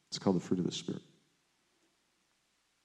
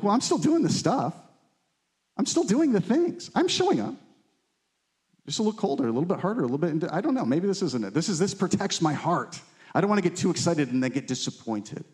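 mock excuse-making; 3 semitones higher than usual. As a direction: play the half-hearted believer defending himself. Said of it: "you could be like".

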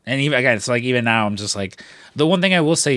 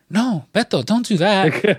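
nephew pleading; 8 semitones higher, slower than usual. Retold or imitated. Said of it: "And he's like".

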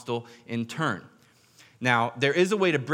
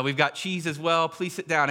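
eager hospitable welcome; 5 semitones higher, 3 dB louder than usual. Retold or imitated. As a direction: urge him warmly to stay. Group welcoming the gunman.

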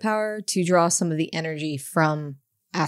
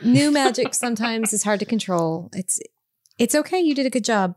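reassuring; 4 semitones higher than usual. Acted. Comforting a shaken friend.

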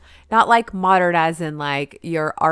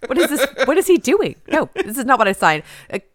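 mock-indignant protest; 4 semitones higher, faster than usual. Voicing the indignant silent dog.

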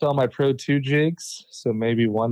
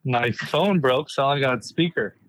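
speakerphone; slower than usual. Real, not acted. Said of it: "You sound so far away".

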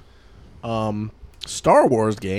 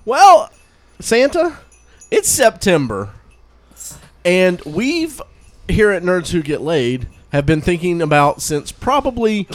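put-on excited kid; 4 semitones higher, 4 dB louder than usual. Talking excitedly to Santa.

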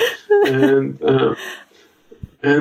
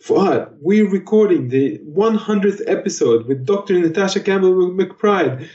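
high, excited nagging impression of Joe; hammed-up high voice of an insistent co-host; mimicking Joe; 8 semitones higher than usual. Mimicking the co-host nagging about recording time. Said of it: "Joe's like".

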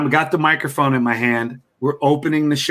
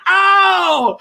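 high loud yelp of pain; sudden loud high "ow" from a dart in the leg; 5 dB louder than usual. Retold or imitated. Comic hit by dart.

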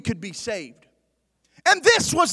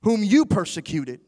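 voice from heaven; 3 semitones lower than usual. Acted. Voice of Jesus answering Paul, low and grave. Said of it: "the voice rang out".

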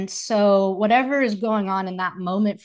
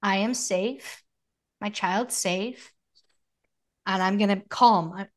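calm self-reassurance. Acted. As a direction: talk yourself down gently, pausing between phrases. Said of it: "I pause, I take a breath".

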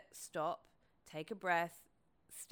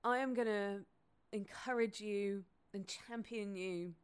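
slow, emphatic heartfelt vow; earnest and full of feeling; emotional; 2 semitones higher than usual. Real, not acted. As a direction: promise it to her, moved. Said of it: "it's making me emotional".

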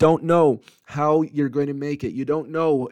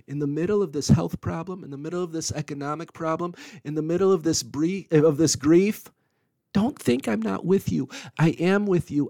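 gentle reprimand; 2 semitones higher, 4 dB quieter than usual. Acted. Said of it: "reprimand you gently and say".

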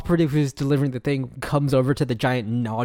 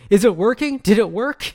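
higher and louder, anxious boss asking; hammed-up demand for news from the boss; mock eager Broyles; 9 semitones higher, 7 dB louder than usual. Imitating Broyles asking for news, loud and high. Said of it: "you hear Broyles' voice going".

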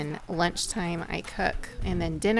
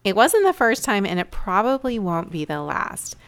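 measured storytelling read; projected, deliberate podcast opener; scripted intro narration; 5 dB louder than usual. Acted. Host introduces a lesson from a menu-less evening, scripted narration.

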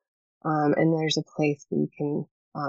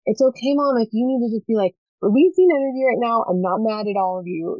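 put-on a higher, brighter little kid's voice; child reassuring mom; 4 semitones higher, 3 dB louder than usual. A kid telling mom it's okay, in a higher child's voice. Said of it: "You're just like".

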